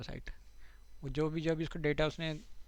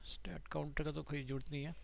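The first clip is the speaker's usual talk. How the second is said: whispered aside; 7 dB quieter than usual. Real, not acted. Aside while setting up accounts.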